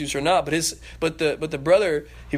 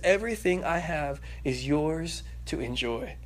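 tender father; 3 dB quieter, slower than usual. Acted. Father reassuring son.

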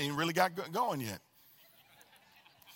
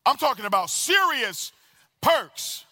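louder, higher, punched out to the room; emphatic repeat; 5 semitones higher, 4 dB louder, slower than usual. Real, not acted. Preacher rousing the congregation to say serious perks, emphatic. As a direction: drive it home with punch.

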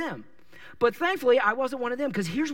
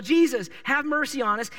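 mild yell; 4 semitones higher than usual. Retold or imitated. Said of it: "And so they yell".

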